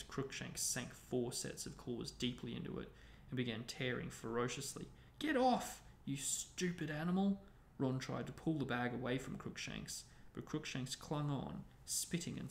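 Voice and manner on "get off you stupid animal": high, loud angry command; angry yell. A narrator's reading. Ron yells at the cat tearing his bag, angrily. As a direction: start high and loud, ease slightly.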